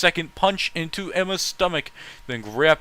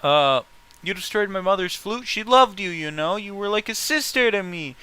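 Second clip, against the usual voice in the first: yelled; 7 semitones higher than usual. Acted. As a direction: hurl it at her, furious and high. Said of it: "Taylor yelled".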